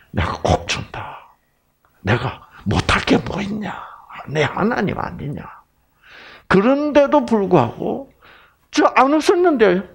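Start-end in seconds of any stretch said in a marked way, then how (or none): 0.1-5.5 soft, half-whispered God voice; hushed divine promise. Acted. Preacher voices God's reassuring promise. 8.7-9.8 feigned innocence. Acted. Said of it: "시침이 딱 되고".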